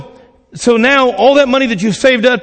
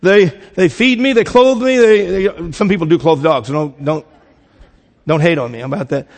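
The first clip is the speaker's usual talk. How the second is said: voicing the dog. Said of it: "The dog says".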